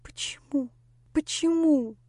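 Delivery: high, mild tearful asking; sobbing question. A narrator's reading. Lera crying, asking why into emptiness. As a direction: ask through tears. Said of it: "плакала почти навзрыд".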